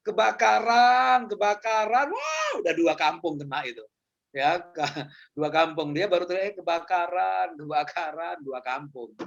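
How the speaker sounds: slow, drawn-out call of fire; unhurried mock alarm; mock slow reaction. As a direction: play the calm type barely reacting to a fire. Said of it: "slow ya".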